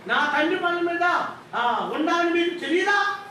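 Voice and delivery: firm retort with a lift in volume; firm, forceful. Acted. Young Jesus answering his worried mother, firm and forceful. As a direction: push it out as a pointed challenge. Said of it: "అని గట్టిగా అన్నాడు".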